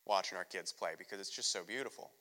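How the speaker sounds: tearful. Retold or imitated. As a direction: let the tears come into the words. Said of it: "I'm just crying".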